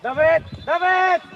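insistent shout across the pitch; urgent calling out. Real, not acted. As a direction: call the player's name to get attention.

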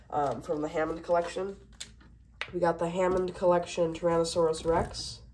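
stuffy congested voice; talking through a stuffed-up nose; blocked nose. Real, not acted. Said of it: "Sorry if I sound really stuffed up".

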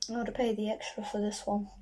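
speaking into drink can; talking with can at lips. Real, not acted. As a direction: mouth against can rim. Seen 0: Can rim pressed to lips throughout; sips just before and after.

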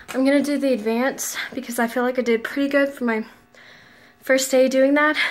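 breathless after dancing, sighs between words; out of breath. Real, not acted. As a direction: talk while still catching your breath. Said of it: "I'm out of breath".

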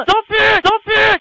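high, loud protest; real high-pitched game yell; panicked shout. Real, not acted. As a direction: cry out for it to stop. Yelling at the game.

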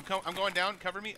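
cover me shout. Real, not acted. Pushing under fire, calling teammates.

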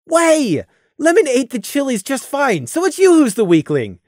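boastful. Acted. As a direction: rub it in, triumphant. Randy boasting to Fiera.

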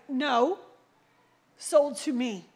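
man insisting loudly the cupboards are his; loud insistence. Retold or imitated. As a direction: insist loudly it's yours. Quarrel over cupboards.

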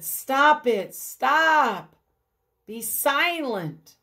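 Jesus quieting a scared crowd; firm command. Acted. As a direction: silence the crowd with authority.

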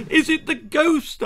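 very high, loud shout; scared child's shout. A narrator's reading. Child clutching grandma's shawl, shouting. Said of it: "I shouted".

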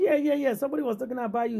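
high, bright eager yeah-yeahs; high-pitched businessman quickly rattling off the news. Retold or imitated. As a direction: play the excited big man who recognises him. Voicing the big businessman.

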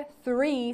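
THREE starting with a soft th; voiceless th. Shown as a demonstration. Teacher showing learners the th sound, voiceless th in "three".

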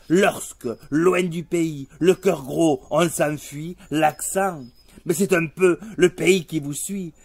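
declaimed verse in measured, ringing phrases; poem recitation. Acted. Performer reciting an ode to his own accent, proud poetic declamation. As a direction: recite it like a stage poem, slowing to the close.

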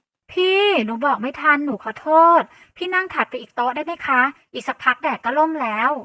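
ตกใจ; flustered apology. A narrator's reading. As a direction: apologize in a panic, pleading. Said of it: "เธอตกใจจนหน้าซีด รีบพูดกับฉันว่า".

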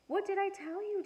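light smug dad; told-you-so. A narrator's reading. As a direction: rub it in playfully. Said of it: "Daddy said".

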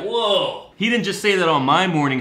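shocked Sway. Retold or imitated. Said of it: "got Sway like".

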